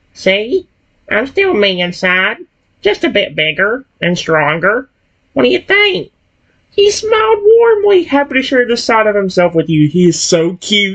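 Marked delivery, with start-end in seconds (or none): 0.2-6.1 animated creature voice, pitch swinging all over. Reading a character's lines aloud after a transformation: Croconaw voice. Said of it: "I'm changing his voice to be Croconaw".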